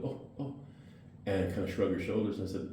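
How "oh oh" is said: soft, high little ohs, mimicked; small mimicked ohs, high and soft; imitated "oh" tic. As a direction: imitate her involuntary oh, pitched up and quiet. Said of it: "She had this thing where she'd go".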